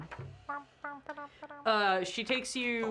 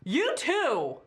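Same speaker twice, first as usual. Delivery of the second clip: high sharp shoo, louder; shooing command; 7 semitones higher, 4 dB louder, much slower than usual. Acted. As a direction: shoo the guards away with a high bark. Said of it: "she's like".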